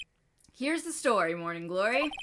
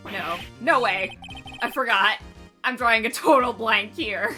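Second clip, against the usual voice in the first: panicked; 7 dB louder than usual. Acted. Panicking at blank memory.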